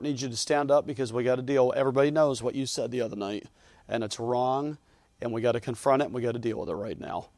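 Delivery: low, soft pastor's reprimand; subdued pretend confrontation. Pastor calling out Robert before the church, quietly. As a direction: keep it down and matter-of-fact.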